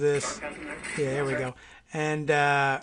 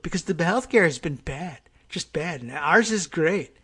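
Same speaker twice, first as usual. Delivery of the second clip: mock unprepared student padding out a book report, emphatic; 4 dB louder than usual. Host mocking the president's healthcare talk, unprepared book-report delivery. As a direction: imitate someone winging a book report, pitch swinging. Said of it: "not ready for your book report style".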